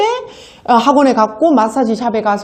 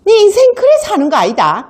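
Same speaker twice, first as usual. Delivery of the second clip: higher, mock stern scolding; scolding customer; 8 semitones higher than usual. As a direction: lecture her like a sour customer. (화난 손님이 높은 목소리로 꾸짖듯)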